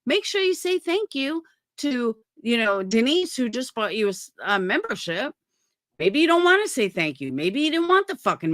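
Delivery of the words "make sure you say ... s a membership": lightly hammed-up sweet creator voice; mock creator reminder. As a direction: parody an overly polite creator nudging viewers. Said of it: "Maybe I should be saying".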